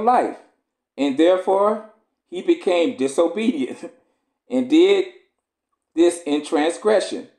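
measured, solemn scripture reading. Acted. Preacher reading Esdras to the congregation, solemn. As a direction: read the old text with gravity.

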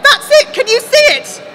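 frenzied, high screamed outburst; screaming. A narrator's reading. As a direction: scream as if finally believed. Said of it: "Cassandra screamed".

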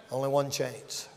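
low, very soft repeat; hushed warning. Real, not acted. Preacher warning of no second chance, hushed. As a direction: drop the voice right down.

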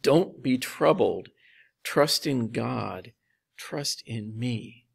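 calm them, one slow phrase at a time; reassuring. Retold or imitated. Jesus to troubled disciples, slow and reassuring. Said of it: "hear that is as a reassurance".

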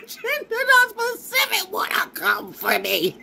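high, slow laugh-crying shout; half sob, half laugh. Real, not acted. Laugh-crying at her critics.

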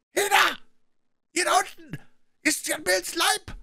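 very high, strained yell; shouted question. A narrator's reading. Blind man to men downstairs, shouted question. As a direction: call out to the men below. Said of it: "schrie der Blinde wieder".

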